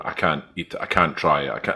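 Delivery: quiet mock whining friends; whiny refusal. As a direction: softly imitate squeamish friends. American friends refusing black pudding.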